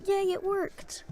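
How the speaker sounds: high, loud, delighted yay; excited cheer. Real, not acted. Streamer relieved that the game fix worked, excited cheer. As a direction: burst out loud and high in celebration.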